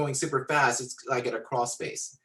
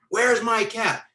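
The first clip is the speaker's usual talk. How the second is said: loud, high-pitched angry shout; acted angry demand; 8 semitones higher, 6 dB louder, slower than usual. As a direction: demand it as the enraged big guy. Angry man shouts his demand again.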